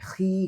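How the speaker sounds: खी with a thin kh straight into long ee; correct thin खी. Shown as a demonstration. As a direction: keep खी fine, no rounding. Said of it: "कहना है". (खी को बारीक पढ़ना)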